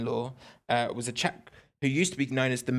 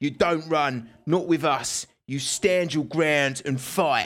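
really terrible put-on Cockney accent; 2 semitones higher, 3 dB louder than usual. Retelling a story, the speaker voices a man's words in a really terrible Cockney accent. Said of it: "in a really terrible Cockney accent, I'm going to attempt now".

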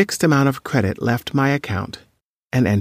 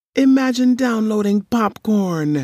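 wheezed words, very high-pitched; 10 semitones higher than usual. Narrator reads Gilberto's reply about refusing the devices, wheezing. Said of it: "he wheezed".

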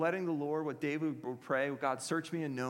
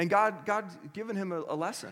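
ordinary talk

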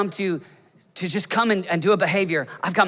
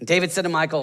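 plain

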